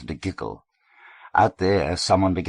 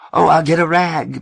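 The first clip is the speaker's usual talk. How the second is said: much higher, louder flustered shriek; screaming; 12 semitones higher, 9 dB louder than usual. A narrator's reading. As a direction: shriek it as she flees the table. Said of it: "Missus Richards screamed".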